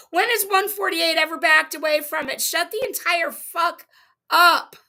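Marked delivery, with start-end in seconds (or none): 2.4-4.7 slow, then yell the last word; angry. Real, not acted. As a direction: spit it out in fury. Furious reply to chat clip.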